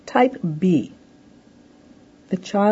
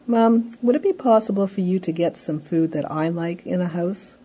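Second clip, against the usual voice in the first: polite, measured request; pleasant asking. Acted. Child asking Mom for food, pleasant tone. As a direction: ask nicely rather than tell. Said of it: "say in a pleasant tone of voice".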